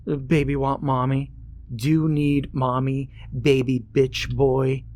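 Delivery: put-on high, sing-song taunting baby voice; mocking baby talk. Bully on the bus mocks crying Ben, high baby-talk taunt. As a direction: coo at him like he's a toddler, to sting.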